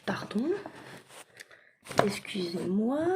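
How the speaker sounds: quick whispered apology. Real, not acted. Apologizing to her viewers for the clatter, whispered. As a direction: breathe the sorry out with no voice.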